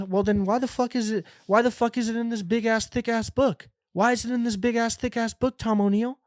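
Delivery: high-pitched exasperated complaint. Acted. Reader complaining to author Tom O'Neill about the book, exasperated. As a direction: demand an answer, voice pushed up high in exasperation.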